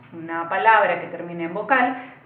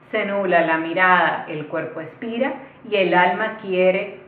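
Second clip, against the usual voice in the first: poem reading. Shown as a demonstration. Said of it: "Lo voy a leer".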